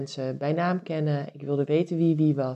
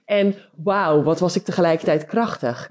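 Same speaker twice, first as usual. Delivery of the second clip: excited; 2 semitones higher, 6 dB louder than usual. Real, not acted. Admiring her past strength.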